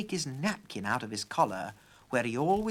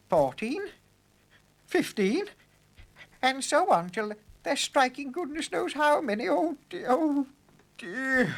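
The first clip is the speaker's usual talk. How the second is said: higher and higher, alarmed; rising panic; 11 semitones higher, 4 dB louder than usual. A narrator's reading. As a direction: panic building count by count. Professor panics.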